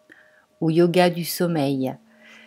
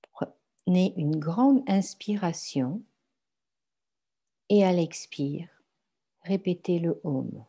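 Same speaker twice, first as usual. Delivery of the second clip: calm, measured relaxation guidance; guided meditation. Acted. Guides a yoga nidra meditation. (méditation guidée, lente et paisible)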